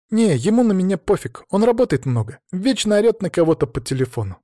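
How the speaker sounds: put-on a teen girl telling her dad what happened; hint of a hurt young daughter; teenage daughter. Tonya describes stepfather.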